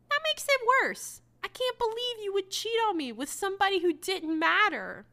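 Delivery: high, loud hammed-up indignation; husband's hammed-up outrage at his wife's excuse; mock outrage. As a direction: play the betrayed husband's outrage, overdone. Jason's angry retort, mock voiced.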